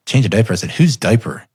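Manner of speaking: mildly baffled retold question; puzzled echo. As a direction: echo it back in bewilderment. Dad echoes child's baffling answer.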